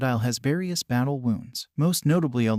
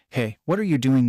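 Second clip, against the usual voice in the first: mild mock yell, a touch louder; 4 dB louder than usual. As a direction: call out in alarm, lightly acted. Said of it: "Nami yelled".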